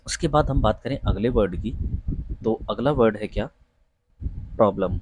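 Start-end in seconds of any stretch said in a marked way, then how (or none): 4.2-5.0 प्रॉब्लम with an open 'aw' vowel; correct pronunciation. Shown as a demonstration. Teacher models the next word for interview students, correct pronunciation. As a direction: say प्रॉब्लम as 'prawblum'. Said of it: "सही उच्चारण".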